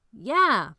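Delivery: a keen little yes; piped up eagerly. A narrator's reading. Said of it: "Benny piped up eagerly".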